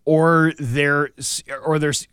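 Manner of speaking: stumbling over words while stoned; stoner. Real, not acted. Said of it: "I am stoned right now".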